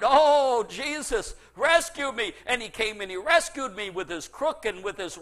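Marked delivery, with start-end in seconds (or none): 0.0-2.3 loud, pleading cry for rescue; crying out to Jesus. Retold or imitated. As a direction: call out to the shepherd for help. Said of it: "I cried out to my shepherd".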